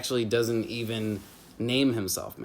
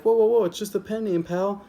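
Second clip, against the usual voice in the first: higher, louder mock-defensive whoa; defensive backpedal; 10 semitones higher, 5 dB louder than usual. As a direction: throw up your hands and backpedal. Guy backpedals when Ace objects.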